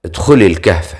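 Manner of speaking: brief, mildly commanding order; understated tone of command. A narrator's reading. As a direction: give a restrained order. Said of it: "وقال بلهجة آمرة".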